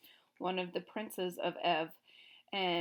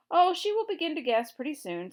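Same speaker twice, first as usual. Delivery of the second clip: higher, louder, cheery king; cheerful king; 7 semitones higher, 8 dB louder than usual. A narrator's reading. Gnome King cheerfully telling Scarecrow of Dorothy's fate. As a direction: chirp it like a pleased villain. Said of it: "said the king cheerfully".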